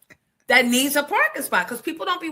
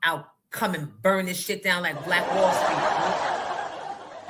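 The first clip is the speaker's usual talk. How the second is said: mock racist cop; 4 semitones lower than usual. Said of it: "That's what I heard".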